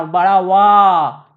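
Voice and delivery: वा stretched loud and long on its आ sound; drawn-out long vowel. Shown as a demonstration. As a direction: hold the आ in वा, very slow and loud. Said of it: "वा में क्या आ रहा है आपको sound". ("वा" को ज़ोर से लंबा खींचकर)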